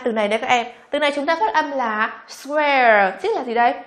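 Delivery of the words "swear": "swear" with a drawn-out air glide; AIR vowel. Shown as a demonstration. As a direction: model "swear" slowly, ending in air.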